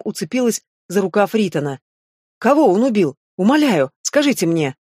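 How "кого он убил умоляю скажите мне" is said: grab his sleeve and beg him; emotional plea. Acted. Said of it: "поддавшись эмоциям".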